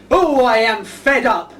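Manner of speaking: slow, drawn-out mock misery; mock fed-up sigh. Shown as a demonstration. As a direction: moan it slowly like a sulking clown. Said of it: "can you lot yell out".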